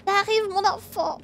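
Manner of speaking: put-on high, slow quavering old man. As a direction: play a frail grandpa. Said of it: "comment on fait les voix de vieux".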